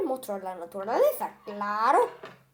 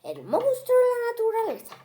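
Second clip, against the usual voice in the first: monster voice; 9 semitones higher, 4 dB louder than usual. Acted. Monster introduces himself to viewers.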